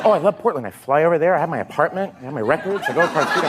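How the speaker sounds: mock gushing list; lightly voiced enthusiast. Co-star going on about Portland, lightly mocked. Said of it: "he just talks about Portland all the time".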